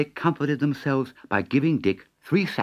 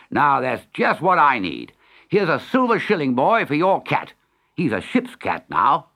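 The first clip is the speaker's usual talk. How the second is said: commanding captain; 3 semitones higher, 4 dB louder than usual. Acted. Captain claims Dick's cat.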